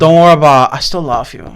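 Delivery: slurred foreign-accented impression; Tommy Wiseau. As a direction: imitate an oddball movie star's delivery. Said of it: "But Tommy Wiseau goes".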